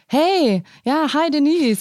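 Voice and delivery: high, swooping chummy hello; mock buddy greeting. Host imitates a man greeting his date like a mate, mock buddy greeting. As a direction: greet a pal as if high-fiving. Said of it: "abklatschen mäßig, ne, so wie man das halt mit Kumpels macht".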